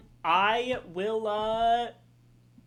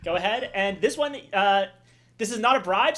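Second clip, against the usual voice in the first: auctioneer. Acted. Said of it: "how long I can keep this auctioneer voice going".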